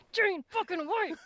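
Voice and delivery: mild mock fan yell; excited cheer. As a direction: cheer the name like a hero's return. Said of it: "And I'm just like".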